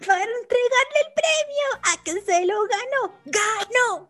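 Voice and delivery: high, loud TV host hype; game show host. Pretend. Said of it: "Sábado Gigante". (animador de Sábado Gigante con voz alta y emocionada)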